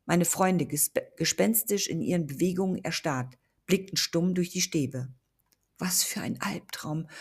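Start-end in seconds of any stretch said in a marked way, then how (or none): 5.8-7.1 breathless frightened whisper. Acted. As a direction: hush it, barely voiced, in dread. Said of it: "flüsterte ich leise".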